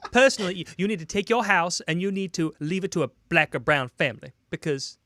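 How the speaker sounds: a lightly put-on sassy black woman voice; a mild impression of a black woman. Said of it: "do your black woman voice".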